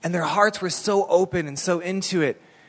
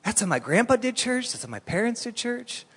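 ordinary delivery

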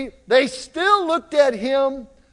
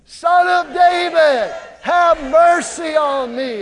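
high, loud, slow plea; crying out; 5 semitones higher, 5 dB louder, slower than usual. Acted. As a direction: cry out all the more for mercy. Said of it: "He cried all out, out all the more".

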